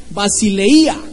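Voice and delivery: "basileia" slowly, stressed on the I; Greek pronunciation. Shown as a demonstration. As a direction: draw out "basileia" with a stressed long I. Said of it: "que se pronuncia".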